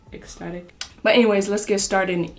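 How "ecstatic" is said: "Ecstatic" repeated very softly; soft echo. Shown as a demonstration. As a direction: drop to a hushed repeat of "Ecstatic". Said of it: "'cause I am so ecstatic".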